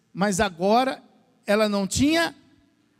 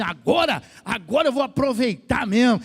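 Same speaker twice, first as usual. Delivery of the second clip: joyful exclaim; 2 semitones higher than usual. Retold or imitated. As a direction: ham up a husband's glee at being free. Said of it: "com tanta alegria". (exclamação alegre imitada)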